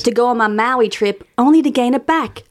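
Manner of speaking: lightly put-on Southern voice; playful attempt at Southern; amateur Southern accent. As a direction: read it out with a tentative Southern twang. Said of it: "I don't know what the Southern accent is".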